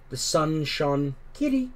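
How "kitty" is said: very high cat call; soft high-pitched voice. A narrator's reading. Susan coaxing the cats, high-pitched call. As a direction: coax a cat in a high little voice. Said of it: "Susan said in a soft, high-pitched voice".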